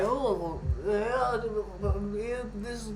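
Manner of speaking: mock a rabbi vouching in a Hasidic accent. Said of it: "That is my very Hasidic accent".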